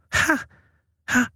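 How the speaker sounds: two short bursts of laughter. A narrator's reading. Boy laughing for the first time in ages, short ha ha. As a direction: laugh out briefly. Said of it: "sagde jeg og lo".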